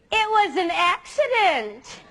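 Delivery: put-on slow, laughing girlish excuse; mock excuse. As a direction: drag out the lame excuse with a laugh. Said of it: "My favorite one is this one".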